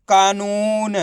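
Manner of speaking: कानून without gaps, long vowels kept; blended word. Shown as a demonstration. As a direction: say कानून joined up as one word. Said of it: "तो मिलके बन जाएगा". (कानून को मिलाकर एक शब्द में)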